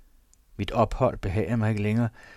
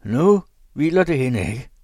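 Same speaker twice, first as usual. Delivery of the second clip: loud taunt; 5 semitones higher, 8 dB louder than usual. A narrator's reading. Husband keeps taunting his wife.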